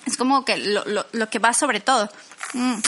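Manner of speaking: talking between sips of water; drinking water. Real, not acted. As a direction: mouth wet from a drink. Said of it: "Perdón, estoy tomando agua".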